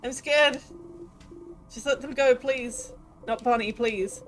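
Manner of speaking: high, loud scared cry; terrified plea. Acted. Child begging for help in terror. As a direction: beg for help in panic. Child begs, friends plead.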